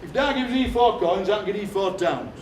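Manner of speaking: lightly imitated Sheffield speech with d for th; hint of broad Sheffield, "dee" for "thee"; Sheffield deedar accent. Uncle sets up his deedar joke, Sheffield accent. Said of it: "proper deedar".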